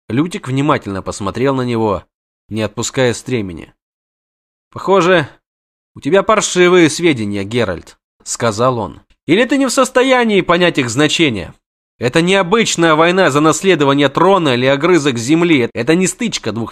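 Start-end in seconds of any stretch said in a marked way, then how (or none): 4.7-16.7 high, fast, panicky chatter; jittery poet begging his friend; frantic poet. Acted. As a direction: babble in a panic to flee. Voiced poet character.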